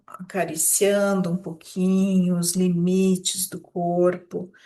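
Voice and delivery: unhurried meditation guide, drawing out words; guided meditation. Acted. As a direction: ease listeners gently into their bodies. (meditação guiada, sem nenhuma pressa)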